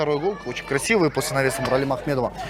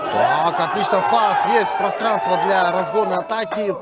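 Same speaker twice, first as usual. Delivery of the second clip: rising, louder play-by-play call; excited commentary; 4 semitones higher, 3 dB louder than usual. Real, not acted. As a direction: call the attack with a surge. (взволнованный комментарий)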